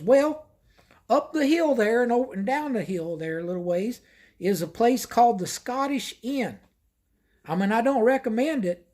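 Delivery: a hint of a fed-up small-town clerk; motel desk lady. Motel lady voiced in retold story.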